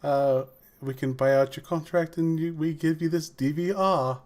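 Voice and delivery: lightly imitated posh British accent; posh British gentleman. Salesman pitching a DVR, in a posh British accent. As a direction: sales patter in a mock upper-class British accent. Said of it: "posh British gentleman".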